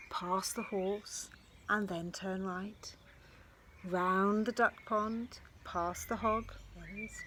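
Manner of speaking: lively storybook reading; reading to children. A narrator's reading. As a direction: read it like a picture book to kids. Reads a picture book aloud.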